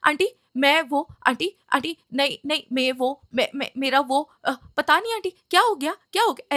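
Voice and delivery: mock flustered stammering, pitch jumping up; panicked stammer. Scared boy stammering to an angry mother, flustered. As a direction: imitate the boy fumbling for words. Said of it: "वो एकदम घबरा गया, आवाज़ ही निकल".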